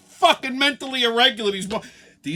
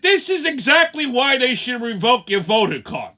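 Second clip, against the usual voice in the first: loud, indignant telling-off; loud scornful reprimand; angry scolding; 3 semitones higher, 6 dB louder than usual. Retold or imitated. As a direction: scold her to her face. Scolding the woman.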